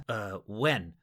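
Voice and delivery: trying to sound unafraid; forced casual, hiding fear; fake calm. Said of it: "my best I'm not terrified voice".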